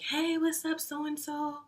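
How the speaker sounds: imitating a friend's high, singsong hello; high-pitched, drawn-out retold hey; friendly greeting. Friend greets the guy she knows, imitated high-pitched greeting.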